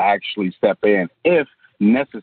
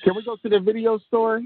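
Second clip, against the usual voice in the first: put-on asking kid; 11 semitones higher than usual. Retold kid and parent exchange.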